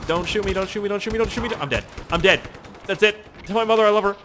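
high, hammed-up pleading; mock dying plea. Player jokingly begging soldiers not to shoot, mock panic. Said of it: "I was just joking".

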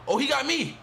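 high, panicked rapid-fire no's. Real, not acted. Gamer caught by the opponent, panicking. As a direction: voice jumps up high in a panic, ending in a yelp. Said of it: "you can hear the panic in my voice".

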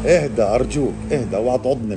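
real alarmed appeal; urgent plea. Real, not acted. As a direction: plead urgently with an unruly animal. Pleading with the agitated lizard.

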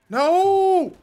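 high, loud cry of disbelief; incredulous high shouting; dismayed yell. Real, not acted. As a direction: wail it in frustration. Dismayed at missing shots.

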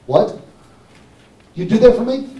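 incredulous question, rising high and loud; astonished. Retold or imitated. Customer offered a free replacement part, astonished. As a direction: imitate a customer who can't believe it.

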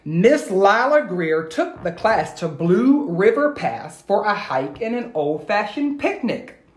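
put-on rhythmic read-aloud for kids; lilting rhyming storyteller voice; story narration. A narrator's reading. Teacher reading a rhyming story to her class, lilting.

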